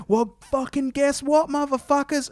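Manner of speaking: mock hype. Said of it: "And then he goes".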